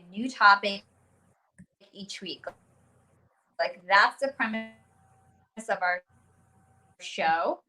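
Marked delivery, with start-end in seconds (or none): 1.9-7.6 choppy breaking-up audio; corrupted glitchy audio. Real, not acted. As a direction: voice cutting in and out. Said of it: "your audio's cutting out a little bit".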